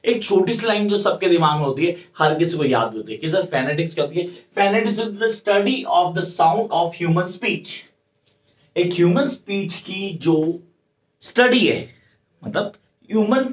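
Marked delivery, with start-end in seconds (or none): 4.6-7.7 slow, deliberate definition read; slow dictation. Shown as a demonstration. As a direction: spell it out slowly for notes. Teacher dictates definition slowly. (धीरे धीरे बोलकर लिखवाना)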